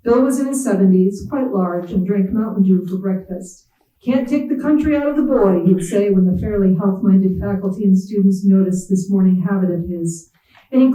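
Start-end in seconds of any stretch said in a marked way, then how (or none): 4.0-5.6 higher, lightly voiced country boss; mild imitation of a good-old-boy administrator. Bill's folksy catchphrase quoted.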